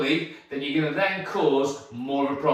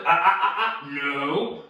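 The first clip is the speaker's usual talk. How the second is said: short, sharp "ah" warnings; stern telling-off; dog correction. Shown as a demonstration. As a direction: scold the dog with staccato ahs, then a firm no.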